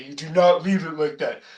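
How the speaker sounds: lightly voiced stern teacher scolding students; a hint of a fussy colleague laying down the rule; mock strict colleague. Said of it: "I'm even making the voice".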